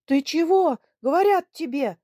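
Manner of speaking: put-on loud, high old man's yell. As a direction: roar at the sobbing daughter. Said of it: "заорал Лемер". (заорал на дочь)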